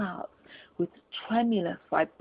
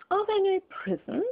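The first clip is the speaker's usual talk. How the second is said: higher, scornful miser's question; Scrooge sneering; 11 semitones higher than usual. Acted. Scrooge mocks the charity collector, higher scornful voice. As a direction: sneer it like a mean old miser.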